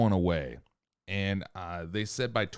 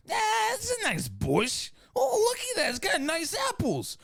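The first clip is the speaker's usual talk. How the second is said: high mock caveman. Caveman voiced admiring a bush.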